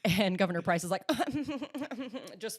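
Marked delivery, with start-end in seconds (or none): 1.1-2.4 high, fluttering imitation laugh; mimicked haughty laugh. Host mimics Governor Price flipping her hair, mimicked haughty laugh. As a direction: put on a little high titter.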